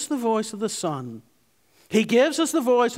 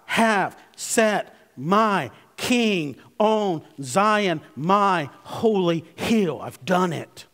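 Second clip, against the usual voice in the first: slow, weighty divine declaration; voice of God; much slower than usual. Acted. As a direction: proclaim it slowly as God himself, with a light touch. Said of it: "God is saying".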